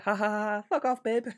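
high smug mate taunt; Gary impression. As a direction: do Gary's smug cackle. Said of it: "it sounds just like that".

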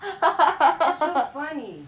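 high, slow, laughing through words. Real, not acted. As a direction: say it while cracking up. Laughing over a movie character.

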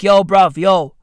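imitating the power company warning about load shedding; mock power company. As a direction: play the utility company ordering everyone out. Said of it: "they're like".

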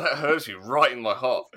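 laughing mock-wounded complaint; mock hurt.

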